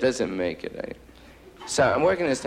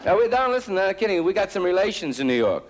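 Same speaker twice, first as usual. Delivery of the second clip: put-on higher, eager old man voice; 9 semitones higher, faster than usual. Old man tells comic about New York relations, eager higher voice. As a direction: play the keen older fan, voice up high.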